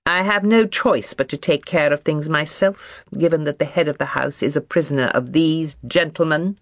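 pointedly sarcastic, projected to be overheard; loud and sarcastic. Acted. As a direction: sneer it for the soldiers passing by. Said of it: "replied in loud, sarcastic tones".

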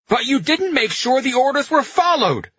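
high, loud accusing shout; furious shout. A narrator's reading. Pino rounds on the general with the machine gun, shouting. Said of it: "Pino shouted".

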